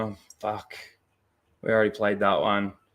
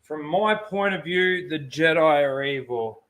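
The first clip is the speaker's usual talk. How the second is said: slow, drawn-out echo of a film line; imitated dramatic line, dragged out; mock film-villain quote; 5 semitones higher, slower than usual. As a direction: parrot the movie line slowly, a bit higher at the start. Echoes line from film clip.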